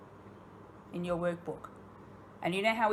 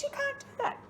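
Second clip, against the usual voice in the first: whispered scolding; faster than usual. Retold or imitated. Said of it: "I go".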